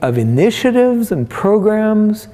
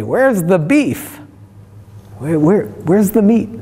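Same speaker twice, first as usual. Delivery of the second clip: put-on a light take on a tiny old lady asking; little old woman voice; 5 semitones higher than usual. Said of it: "in her little old woman voice".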